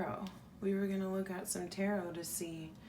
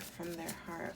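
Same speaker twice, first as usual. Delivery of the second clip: softer echo; 7 dB quieter than usual. Shown as a demonstration. Reader echoing the question to herself, softer. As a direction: repeat it softer, fading away.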